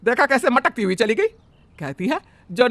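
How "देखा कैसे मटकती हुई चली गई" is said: much higher mocking cry; sarcastic outburst. Mother-in-law ranting to husband about the bride, sarcastic. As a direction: sneer at the dowry idea.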